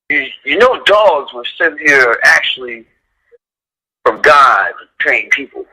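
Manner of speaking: slow, solemn pronouncement; a hint of a mystic elder, slowly; lightly voiced, slow and solemn prophecy; solemn brother of a famous guitarist. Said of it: "How he said it, it was like he channeled his brother".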